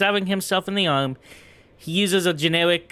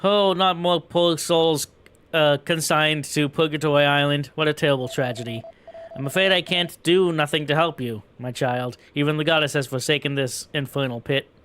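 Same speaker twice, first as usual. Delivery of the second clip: a lightly voiced old man grieving for the newcomers; mournful old prisoner. Elderly prisoner laments.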